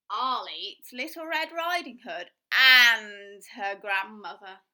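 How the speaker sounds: loud, slow greedy wolf; scheming wolf. Acted. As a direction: relish the wicked plan.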